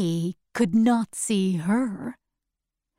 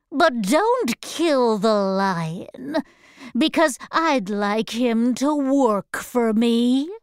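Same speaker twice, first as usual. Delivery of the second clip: wicked witch voice. Acted. Witch orders monkeys.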